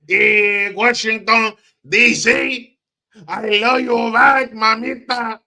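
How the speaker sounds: high, loud put-on Latina accent; mock Hispanic accent. Mocking Kamala at the Hispanic caucus in a high, loud fake Spanish accent. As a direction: ham up a fake Hispanic accent, all flourish. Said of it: "speak like she was Hispanic".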